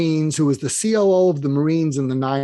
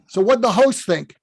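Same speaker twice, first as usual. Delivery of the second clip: Brooklyn accent impression, higher pitched; Larry King; 5 semitones higher than usual. Dead mentor questioning Mark, impatient Brooklyn accent. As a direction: prod him in Brooklynese. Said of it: "in his Brooklyn accent".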